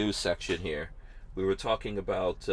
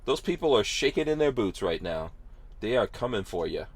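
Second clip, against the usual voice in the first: sarcastic. Acted. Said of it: "I'm being sarcastic".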